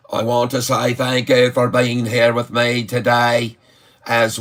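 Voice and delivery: lightly put-on Aussie twang; Australian accent. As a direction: play the excited Aussie market host. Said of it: "typing like the Australians a bit anyway".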